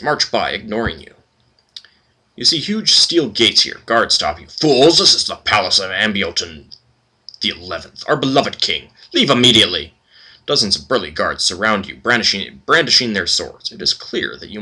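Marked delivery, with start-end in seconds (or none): 4.5-9.9 a lightly voiced haughty guard, barking orders; stern palace guard. Palace guard ordering the party to leave, lightly voiced and haughty. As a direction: warn off intruders with lightly put-on contempt.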